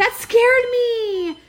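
loud, slow, high startled cry. Real, not acted. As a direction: jolt like a sudden alarm went off. Startled by the clock alarm.

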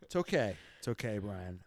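a mock-gracious quiet reassurance; forced calm. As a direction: say it through clenched restraint. Retold reply, forced calm.

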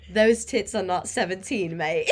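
imitated British lad accent. Retelling a British man's remark to friends, British accent. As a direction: quote him in a British accent. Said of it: "in the British accent".

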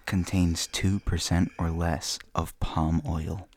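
put-on creepy old man voice. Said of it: "creepy old man voice".

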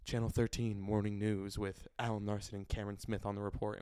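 lightly put-on newscaster; formal evening news intro; news anchor voice. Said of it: "talk show host now".

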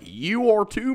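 high mock yell; imitating angry woman. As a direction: shriek at the store clerk. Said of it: "she's like".

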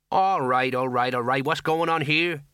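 slow-witted officer taking charge; hint of a plodding policeman; lightly voiced police sergeant. Sergeant breaking up a crowd, lightly officious.

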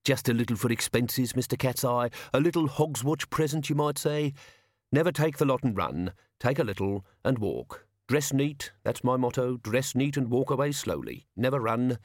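lightly voiced old hand schooling youngsters; measured, instructive gang boss; seasoned crook giving advice. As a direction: pass on the tricks of the trade. Mister Brown teaches his method.

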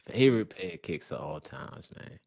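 Baltimore accent. Real, not acted. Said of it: "that's my bad Baltimore accent".

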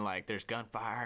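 normal talking voice

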